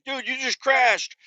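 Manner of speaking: slow, high put-on voice for the bystander; drawn-out casual tell-it-like-it-is; matter-of-fact stranger. UPS guy telling the driver he crashed, slow and high.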